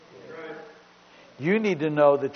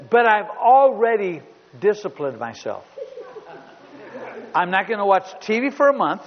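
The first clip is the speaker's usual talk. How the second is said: put-on louder, earnest kid pleading his case; earnest son; 4 semitones higher, 5 dB louder than usual. Son on phone to father, earnest pleading. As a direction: lay out your self-punishment like a boy. Son's self-punishment speech retold.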